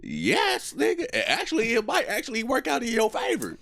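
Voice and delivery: high, teasing know-it-all; mocking high voice. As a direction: answer like it's obvious, up high. Answers his own question in a character voice.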